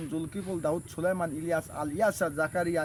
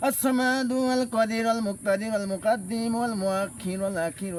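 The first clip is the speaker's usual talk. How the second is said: slow, measured Arabic chant of the divine names; Quranic-style recitation; slower than usual. Acted. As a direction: intone each name devoutly, drawing it out. Recites the ninety-nine names of Allah. (ধীর, ভক্তিপূর্ণ সুরে আল্লাহর নাম তিলাওয়াত)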